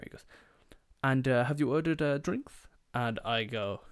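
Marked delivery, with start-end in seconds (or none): 1.0-2.7 lilting waiter voice rising high at the end; Julio from The Simpsons. Retold or imitated. Waiter asking the table about drinks, rising lilt. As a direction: ask it with a climbing cartoon lilt. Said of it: "I know that was Julio from The Simpsons".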